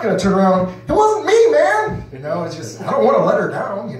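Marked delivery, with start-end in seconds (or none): 0.9-2.0 high, loud mock denial; mock protest. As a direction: yelp it like you're caught. What he won't say.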